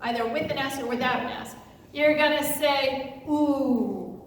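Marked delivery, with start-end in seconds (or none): 3.2-4.2 drawn-out low ooh; ooh response. Shown as a demonstration. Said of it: "when you hear the word angel or angels".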